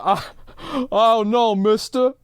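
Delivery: half-hearted hammed-up student panic; caught-out panic. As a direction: squeak out a caught kid's dread. Billy caught out, retold.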